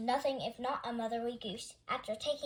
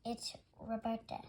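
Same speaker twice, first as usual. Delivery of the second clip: sighing; 9 dB quieter than usual. A narrator's reading. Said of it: "she sighed".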